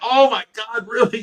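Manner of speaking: high, loud, freaking-out, amazed, stunned disbelief. Retelling being given a truck full of fish: retelling own past freak-out. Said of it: "I was just, like, freaking out".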